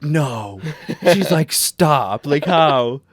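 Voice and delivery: loud, high, disbelieving outburst; incredulous old lady. Retold or imitated. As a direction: play the shocked old woman, loud and high. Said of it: "And she's like".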